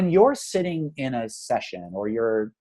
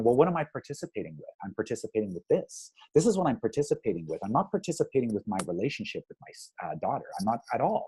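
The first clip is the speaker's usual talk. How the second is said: inner realization; 3 semitones lower, 8 dB quieter, faster than usual. Retold or imitated. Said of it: "I'm going".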